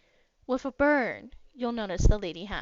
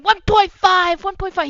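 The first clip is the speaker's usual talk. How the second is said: crowd calling bids; 8 semitones higher, 13 dB louder than usual. Acted. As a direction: shout the bid from the crowd. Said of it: "people are going".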